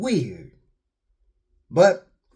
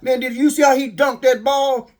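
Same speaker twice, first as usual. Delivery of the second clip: excited sports fan; 5 semitones higher, 4 dB louder than usual. Retold or imitated. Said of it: "that's all people wanna talk about".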